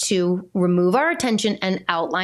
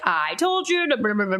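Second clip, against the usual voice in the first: lecturing mom. Retold or imitated. Mom lecturing her daughter about forgotten cleats, droning. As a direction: rattle it off like a lecturing parent. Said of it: "I'm a lecturer".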